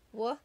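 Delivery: Wa-ave with the long A split and drawn out; stretched A sound. Shown as a demonstration. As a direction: pull the A in Wa-ave apart. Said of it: "Do you hear the long A sound?".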